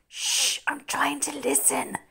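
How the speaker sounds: whispered. Acted. Jimmy to Charlie while eavesdropping, whisper. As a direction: hush them while listening hard. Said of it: "Jimmy whispered back".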